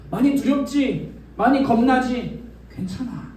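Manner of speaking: gently soothing scared disciples; comforting. Acted. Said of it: "라고 말씀하시고".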